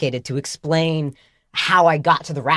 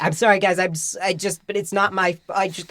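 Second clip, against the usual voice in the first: higher, halting mock apology; flustered apology; 5 semitones higher than usual. Red-faced student apologising to the room, flustered. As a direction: trail off between false starts. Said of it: "I don't know what to do".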